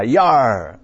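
a sailors' yell as they storm the ship; boarding cheer. Retold or imitated. Sailors storming the enemy ship with a loud cheer. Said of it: "they storm on board cheering".

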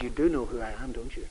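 hushed and conspiratorial, leaning in; conspiratorial whisper. Retold or imitated. Teasing a Jewish couple at dinner, hushed conspiratorial voice. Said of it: "In a conspiratorial whisper".

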